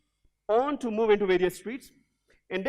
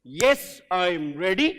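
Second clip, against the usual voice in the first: a louder, rising "Yes, I am ready"; louder call; 4 semitones lower, 5 dB louder, slower than usual. Shown as a demonstration. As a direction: push "ready" up with more voice. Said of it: "So you repeat with me".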